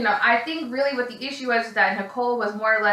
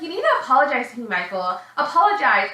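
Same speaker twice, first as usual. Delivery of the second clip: imitated bossy demand; 2 semitones higher, faster than usual. Girlfriend demands apology from boyfriend, mock scolding. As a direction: press him for it, lightly hammed-up.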